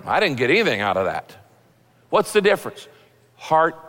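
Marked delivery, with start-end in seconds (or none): 0.0-1.4 quick, lower, dismissive reply; unimpressed churchgoer. Acted. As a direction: act out the one who got nothing. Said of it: "the other person goes".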